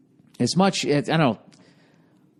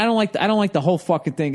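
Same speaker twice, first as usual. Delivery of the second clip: usual speaking voice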